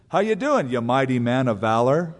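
lightly mocking, mildly hearty hail; tongue-in-cheek greeting. Angel greets scared Gideon as a mighty warrior, tongue-in-cheek. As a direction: hail them with a wink in the voice. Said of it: "It's kind of tongue-in-cheek".

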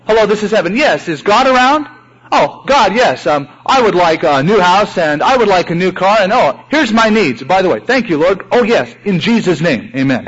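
preacher mocking a shopping-list prayer, lightly chirpy; mock prayer hotline call. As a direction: play a caller ordering from heaven like a catalogue. Acted phone call to heaven.

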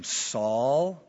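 gently drawn-out name call; mild, kindly address; gracious. Retold or imitated. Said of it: "notice how gracious Jesus is".

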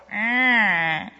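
lightly imitated baby "ah"; just a little baby sound, no words; baby's wordless ah. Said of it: "right now it's".

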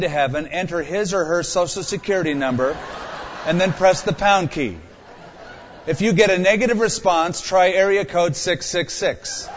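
automated phone message; phone menu voice. Pretend. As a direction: read it like a recorded phone menu. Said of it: "Imagine praying but getting this".

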